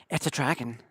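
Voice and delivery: low, soft, dry restatement; composed deadpan. Shown as a demonstration. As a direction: clear the throat and say it flat and composed. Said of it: "clears throat, redoes line".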